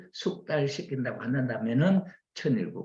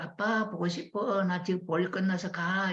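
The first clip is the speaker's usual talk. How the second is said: affectionate longing; 9 semitones higher than usual. Acted. Wife calling husband as she heads home, affectionate longing. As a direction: let him hear you miss him.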